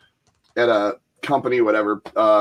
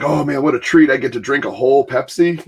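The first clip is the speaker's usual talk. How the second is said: put-on excited kid; 3 dB louder than usual. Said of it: "I was like".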